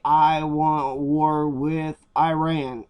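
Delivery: slow, drawn-out mock declaration; a lightly voiced woman declaring war, slow and deliberate; mock quote. Vlogger mocks her slow war declaration. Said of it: "all she has to do is say".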